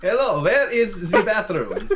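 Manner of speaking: slow exaggerated American tourist accent; weird American accent. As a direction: put on a goofy American accent. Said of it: "you speaking in a weird American accent".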